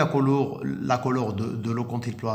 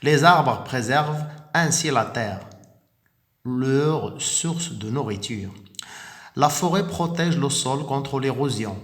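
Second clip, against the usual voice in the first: clear, careful teacher reading of the text; model reading aloud. Shown as a demonstration. Teacher reading the lesson text aloud to pupils, clear and steady. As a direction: read it out as the model for the class. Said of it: "on va faire une lecture magistrale".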